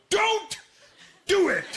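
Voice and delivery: high, loud panicked yell; kid yelling. Retold or imitated. Boy yelling at his dad to stop, high and loud. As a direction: cry out to stop him. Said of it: "I go".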